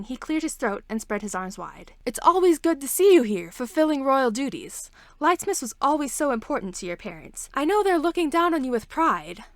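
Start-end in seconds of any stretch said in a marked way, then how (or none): 2.0-9.4 loud, high, showy welcome of the princess; pompous town leader. Acted. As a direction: boom it out like an eager official.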